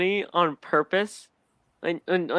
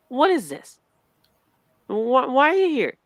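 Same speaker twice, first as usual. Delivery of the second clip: puzzled mock voice; 7 semitones higher, 4 dB louder than usual.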